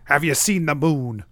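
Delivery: mocking echo at normal pitch; przedrzeźnianie. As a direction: parrot the question back, understated. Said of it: "the demon asks".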